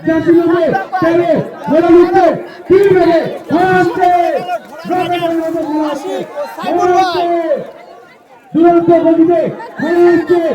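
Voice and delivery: steady race call over the loudspeaker; race caller. Real, not acted. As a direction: keep calling the horses home. Live race calling.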